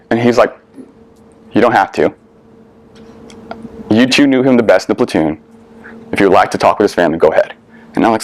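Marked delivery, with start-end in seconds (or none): 1.5-7.5 calm, understated retold permission. Platoon sergeant giving two young Marines a choice, very calm. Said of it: "he just said in a very calm voice".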